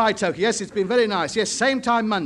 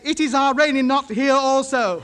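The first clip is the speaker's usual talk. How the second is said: mimicked broken English; 4 semitones higher, 3 dB louder than usual. Answers in the foreigner's broken English.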